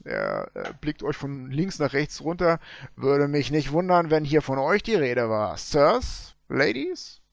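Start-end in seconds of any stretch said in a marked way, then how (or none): 3.0-7.2 gold prospector. Acted.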